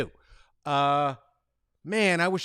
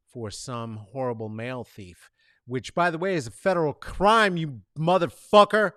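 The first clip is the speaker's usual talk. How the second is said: ordinary talk, nothing marked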